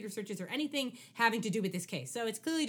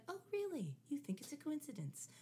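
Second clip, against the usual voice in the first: threatening; 10 dB quieter than usual. Retold or imitated. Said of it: "delivered a little more, like, threateningly".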